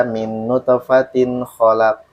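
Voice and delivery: slow recitation with a short single KH in KHOLAK; KH semplice. Shown as a demonstration. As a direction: recite on a level tone, KHOLAK undoubled. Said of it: "pas saya baca".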